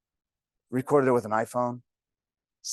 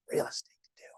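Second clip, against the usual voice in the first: whisper; 8 dB quieter, faster than usual. Retold or imitated. Dramatic line to wife.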